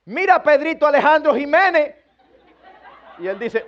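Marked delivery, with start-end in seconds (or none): 0.1-1.9 higher, louder parent using the full name; mock stern full name. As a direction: say the full name like the final warning. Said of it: "a la cuarta usted dice".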